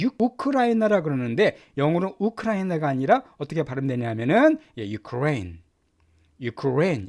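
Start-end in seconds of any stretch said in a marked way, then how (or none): 4.9-7.1 유크레인 said "you-KRAIN", stress on 레; teacher modelling English Ukraine; stress on RAINE. Shown as a demonstration. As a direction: say 유크레인 with the weight on the second syllable. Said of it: "레 강세가 들어갑니다".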